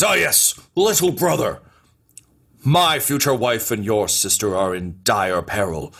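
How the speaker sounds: lightly voiced pompous schemer; grandiose would-be brother-in-law. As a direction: declaim the peril with mock gravity. Plays Phalox addressing little brother.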